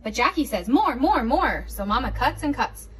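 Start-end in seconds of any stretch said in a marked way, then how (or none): 0.7-1.7 demanding. Acted. Toddler demanding.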